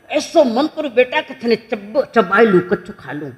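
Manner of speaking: half-laughing mock baby adoration; acted doting relative, amused; playful gushing. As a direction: gush over a cute baby, chuckling.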